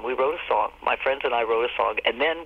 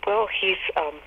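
sheepish friend; 5 semitones higher than usual. Retold or imitated. Friend sheepish about the breed.

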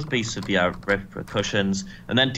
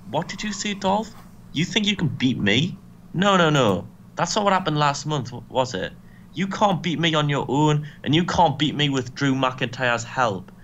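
mild mock wrestler's taunt, pitched up at first; taunting challenge; 2 semitones higher than usual. Rusev goads Dolph backstage, mock taunting. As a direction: challenge him with pointed, scornful questions.

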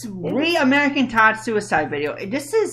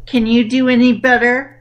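1 odd voice; 6 dB louder than usual. Acted. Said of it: "What was that voice?".

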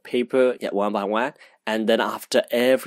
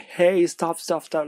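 retold yelling; 7 semitones higher, slower than usual. Vlogger imitating onlookers yelling at the driver, mock yell. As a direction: imitate a crowd calling out in alarm. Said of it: "everyone's, like, yelling".

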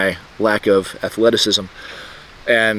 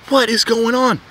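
confused; 11 semitones higher than usual. Retold or imitated. Confused as another passes.

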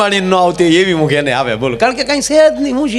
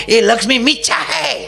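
higher, mildly hollered sermon parody; mock preacher cry; 5 semitones higher than usual. Comic mimics morning TV gurus giving advice, mock preacher cry. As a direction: imitate a TV guru crying out advice. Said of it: "આવો રાયડું નાખતા હોય".

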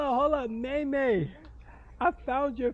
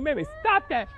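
retold scolding; 2 semitones higher, 5 dB louder than usual. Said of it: "I'm like".

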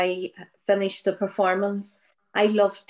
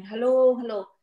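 retold calling out; 3 semitones higher, 4 dB louder than usual. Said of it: "men shouting down".

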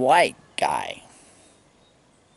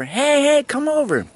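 calling someone over. Retold or imitated. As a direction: wave her over with your voice. Friend calling woman over.

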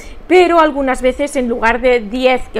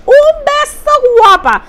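high, loud "un beso, guapa"; bright, loud farewell kiss; affectionate shout-out; 13 semitones higher, 6 dB louder than usual. Real, not acted. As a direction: send a big kiss to a viewer. Blowing a kiss to a viewer.

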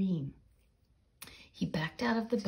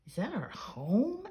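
dismay; 4 semitones higher than usual. Acted. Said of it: "asked the dog in dismay".

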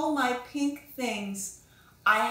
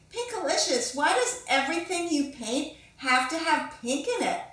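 put-on higher, needling little-girl voice; teasing classmate; 4 semitones higher than usual. Tara teasing Pinkalicious about pink paintings, higher and needling. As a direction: poke fun at her love of pink.

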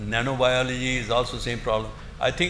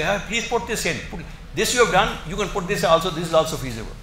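higher, coaxing patent lawyer voice; coaxing legal advisers; 4 semitones higher than usual. Retold or imitated. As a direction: urge him to add more claims. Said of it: "they say".

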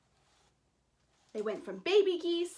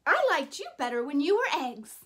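fast, louder stern grumble; stern bear; 5 dB louder, faster than usual. Acted. Bruce scolds the goslings, fast and stern. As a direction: rattle it off, fed up and stern. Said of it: "Bruce was very stern and said".

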